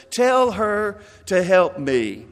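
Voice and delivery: slow, clipped-off commands; barking orders. Acted. Martha to Jesus, slowly barking out orders. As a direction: bark it at him slowly. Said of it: "she's barking out orders".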